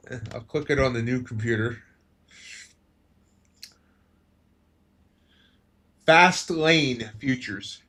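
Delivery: talking around a toothpick in the mouth. Real, not acted. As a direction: mouth slightly full, words rounded. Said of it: "I had a toothpick in my mouth".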